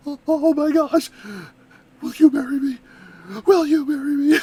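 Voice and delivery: hammed-up gasp, then emphatic plea; overwhelmed, pleading play-acting; pretend lovestruck awe. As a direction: blurt out a mock proposal. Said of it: "be instantly like".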